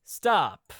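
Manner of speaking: low-pitched mock celebrity PSA; lightly voiced athlete saying one low word; Michael Jordan. Host quoting athlete in ad, low impression. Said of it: "to quote Michael Jordan".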